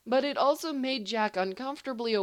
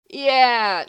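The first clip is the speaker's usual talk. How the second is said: sharp yell; 5 semitones higher, 12 dB louder than usual. Acted. Instinctive sharp refusal.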